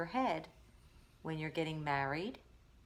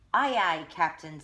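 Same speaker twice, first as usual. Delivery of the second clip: loud eager aye aye; sailor reply; 8 dB louder than usual. A narrator's reading. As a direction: snap back like a deckhand.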